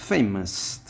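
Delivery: ফেমাস with ফে punched; stress on first syllable. Shown as a demonstration. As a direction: lean hard on the ফে of ফেমাস. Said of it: "ফের পরে আমরা".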